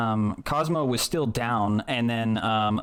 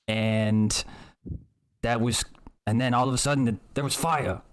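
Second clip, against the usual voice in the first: lightly voiced rustic witness with dropped consonants; halting, simple-spoken account, feeling for each phrase; earnest young character. Character explaining the tavern fight to the gruff figure, hesitant and earnest. Player tells events as their character.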